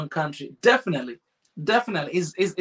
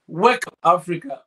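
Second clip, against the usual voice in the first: rallying call; 4 dB louder than usual. Real, not acted.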